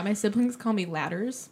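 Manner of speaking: said casually, as a plain fact; matter-of-fact, thrown away. Real, not acted. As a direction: mention it offhandedly. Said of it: "You just say that so ca".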